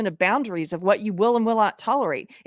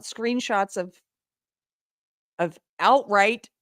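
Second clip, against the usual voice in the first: ordinary talk, nothing marked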